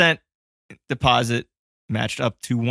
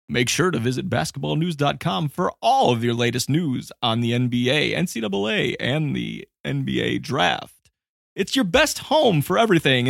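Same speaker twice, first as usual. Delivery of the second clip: radio guy voice. Retold or imitated. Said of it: "I was doing radio guy voice too".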